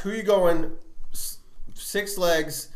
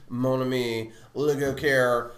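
hammed-up French phrases; mock French; 4 dB louder than usual. Teasing his friend with mock French. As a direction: lay on a mock French flair. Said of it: "We fucking get it!".

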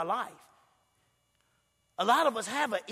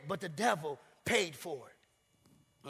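dropped low and soft, drawn out; much lower, quiet sly punchline; low, slow punchline; 5 semitones lower, 9 dB quieter, much slower than usual. Acted. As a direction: let it sink in.

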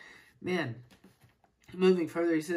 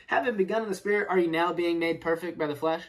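sarcastic; 5 dB louder, faster than usual. Retold or imitated. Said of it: "Now he's being a little sarcastic".

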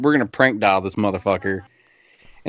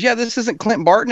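put-on girl on phone; 10 semitones higher than usual. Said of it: "She goes".

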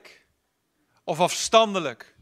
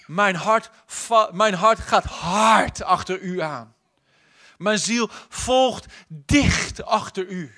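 slow longing; slower than usual. Acted. Quoting the psalmist's longing.

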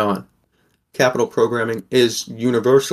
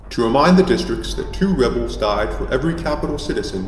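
smug President Snow. Acted. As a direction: announce it with cold, lightly voiced self-satisfaction. President Snow announces the quell.

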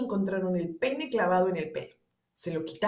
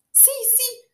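Snow White voice; 4 semitones higher, slower than usual. A narrator's reading. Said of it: "dijo Blancanieves".

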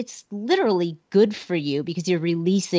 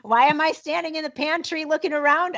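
puzzled laughing self-talk; 7 semitones higher than usual. Retold or imitated. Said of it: "I go".

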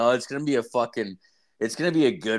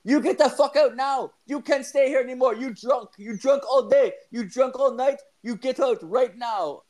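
hammed-up Asian accent, much higher and louder; mock Asian accent; 13 semitones higher, 4 dB louder than usual. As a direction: yell like an angry Asian landlady in a hammed-up accent. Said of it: "like, Asian. She's like".

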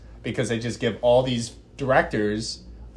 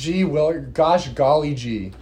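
fake wholesome; 4 semitones higher, 4 dB louder, slower than usual. Mocking wholesome slang.

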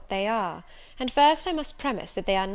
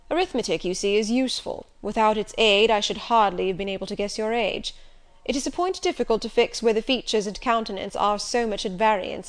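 Rochester, commanding; 2 semitones higher, 5 dB louder than usual. Acted. Rochester lectures Jane.

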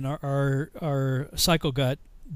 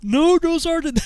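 high, loud recruit answering the sergeant; recruit's reply; 13 semitones higher, 7 dB louder, slower than usual. Retold or imitated. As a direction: shout back obediently, pitched way up.

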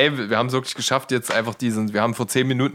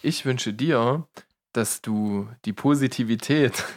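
pathetic solemn blessing. Acted. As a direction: spin it out like a kitsch calendar saying. Pathetic calendar-saying farewell. (langsam, pathetisch, wie ein Kalenderspruch)

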